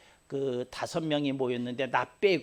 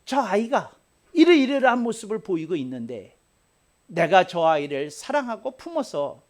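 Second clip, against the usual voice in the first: fervent prayer; 5 semitones higher, 3 dB louder than usual. Shown as a demonstration. Pastor modelling a prayer for an enemy, high and pleading. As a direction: pray earnestly for the other person. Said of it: "너의 영혼을 사랑하는 마음을 품고".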